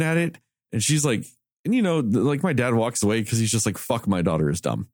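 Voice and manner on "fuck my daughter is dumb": dad's muttered thought. Retold or imitated. Dad's inner thought voiced.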